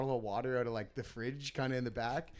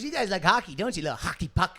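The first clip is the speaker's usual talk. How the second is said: imitated pushy friendliness; aggressive niceness; 3 semitones higher, 4 dB louder than usual. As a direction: tease like a gruff host. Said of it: "he was just so aggressive".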